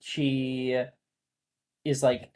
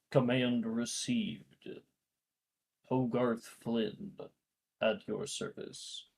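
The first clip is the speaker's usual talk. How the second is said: robot voice; 5 dB quieter, slower than usual. Acted. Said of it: "you can hear a voice echo out".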